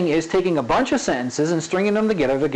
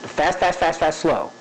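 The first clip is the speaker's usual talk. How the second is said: changing the pace. Shown as a demonstration. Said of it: "that's changing the pace".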